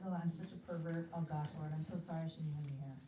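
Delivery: mock shame; self-reproach. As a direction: beat yourself up to God. Imitating ashamed missionary.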